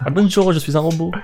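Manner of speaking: high-pitched sci-fi robot. Pretend. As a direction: play a cheesy robot. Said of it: "tu peux bien faire un accent de S F".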